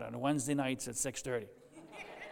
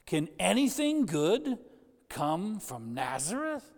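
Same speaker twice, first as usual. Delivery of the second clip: scoffing; 3 semitones higher than usual. A narrator's reading. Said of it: "exclaimed Bartholomew".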